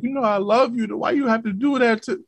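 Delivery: imitating his girl begging; mock girlfriend plea. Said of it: "be like".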